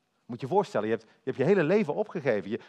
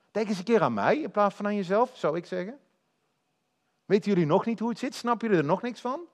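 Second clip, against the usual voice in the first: mock exasperated rebuke; 4 semitones higher than usual. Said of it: "Ik zou hartstikke boos worden".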